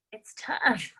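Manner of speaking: real whisper, breath only; a near-whispered confession; whispered admission. Real, not acted. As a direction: let it slip out under the breath. Admitting a hard moment.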